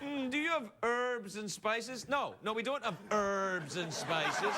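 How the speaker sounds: slow "herbs" with the H dropped; drawn-out "herbs", starting on the vowel; mock silent-H herbs. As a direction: say "herbs" as "erbs", mockingly. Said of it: "You have to say the letter H".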